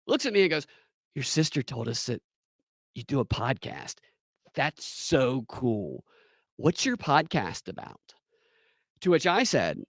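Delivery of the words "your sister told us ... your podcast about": fawning agent. Retold or imitated. Agent fawning over podcast.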